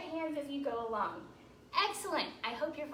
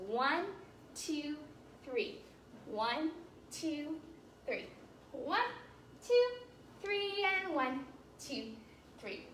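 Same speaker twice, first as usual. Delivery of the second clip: counting waltz time; 5 dB quieter, slower than usual. Shown as a demonstration. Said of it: "We do this step in a music called a waltz that goes".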